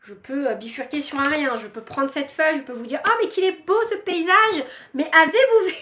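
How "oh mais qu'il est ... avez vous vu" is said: mock enthusiasm. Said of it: "Je peux me calmer".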